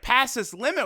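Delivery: mock excited query, lifting at the end; excited question. Zeno-sama asking about Goku passing his limit, excited question. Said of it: "with a question mark, getting real excited".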